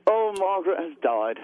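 put-on a lightly done British accent; weak put-on British accent; fake British accent. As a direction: play a Thatcher-loving Brit, half-hearted. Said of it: "can't do a fake British accent".

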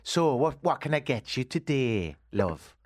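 attempted Welsh coffee shop owner; amateur Welsh accent, friendly shopkeeper. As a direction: greet a customer in a lilting Welsh accent. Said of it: "I'm Welsh, so forgive the attempt at the accent".

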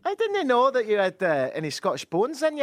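high-pitched mock Glaswegian; put-on Glasgow accent. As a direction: banter in a playful Scottish accent. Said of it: "can you do Glasgow?".

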